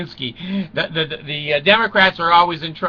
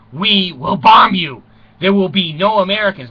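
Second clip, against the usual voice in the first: mock Khrushchev threat; 2 semitones higher, 5 dB louder than usual.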